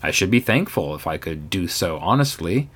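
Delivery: ordinary delivery, nothing marked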